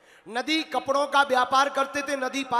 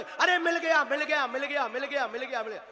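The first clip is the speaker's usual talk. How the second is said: joyful shout; faster than usual. Acted. Villager rejoices.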